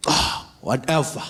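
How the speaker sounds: slow, hammed-up whatever; dad trying too hard to sound casual; clumsy exaggerated brush-off; overdone whatever. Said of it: "you don't have it".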